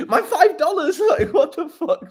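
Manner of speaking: high laughing squeal; real amused laughter; laughing hard. Real, not acted. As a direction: laugh out the words. Laughing at the five dollars.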